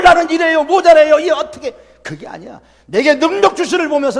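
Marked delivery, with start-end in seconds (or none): 0.0-1.7 loud, high complaining plea; hammed-up complaint; mock whining believer. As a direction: caricature a timid believer's excuses. Mocking a defeatist believer.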